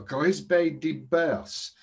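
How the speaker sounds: slow, hammed-up French accent on Grisbe de Bers; dodgy French accent. Tipster naming his horse, dodgy French accent. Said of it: "not a trace of a dodgy French".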